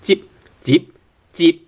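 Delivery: "Jip" ending on closed lips; short "Jip" with a silent final p; unreleased final p. Shown as a demonstration. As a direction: shut the mouth on the p of "Jip" without a puff. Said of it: "you have to close your mouth".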